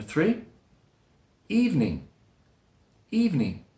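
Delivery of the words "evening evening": "evening" as eev-ning; two-syllable evening. Shown as a demonstration. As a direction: drop the middle schwa of "evening". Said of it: "With two syllables".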